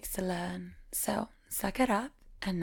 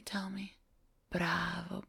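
whisper; 2 semitones lower, 6 dB quieter than usual. Acted. Teasing a student in roleplay.

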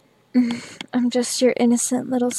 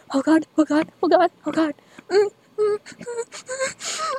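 rising moans; 7 semitones higher than usual. Real, not acted. Approaching climax, rising moans.

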